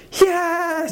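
high, drawn-out whoop of "yes"; imitated far-off scream of delight; retold joyful scream. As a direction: yell it out like someone overjoyed down the street. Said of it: "he suddenly screams".

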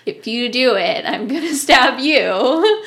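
exaggerated retold menace; mock threat. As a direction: re-enact a drawn-out threat, half joking.

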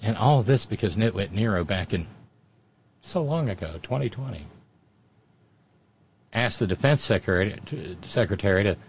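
slurred, low drunk imitation; Jeanine Pirro drunk voice. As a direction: slur it like a tipsy pundit. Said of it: "my Jeanine Pirro drunk voice".

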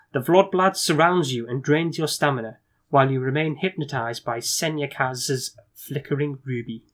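measured storyteller reading; gamebook narration. A narrator's reading. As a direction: set the scene for the player.

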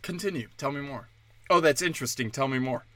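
soft, low, coaxing. Retold or imitated. Comic imagining a journalist coaxing Soros softly. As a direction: draw him out gently. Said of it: "would you be like".

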